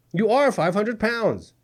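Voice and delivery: slow deliberate delivery leaning on are; blunt and slow. Acted. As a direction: spell out the hard fact slowly. Blunt remark to the plaintiff.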